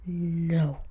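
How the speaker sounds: flat, clipped whispered no; mock the waiter's curt refusal. Waiter curtly refusing the customer, a blunt whispered no. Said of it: "the way she said it, it was like she was telling me off".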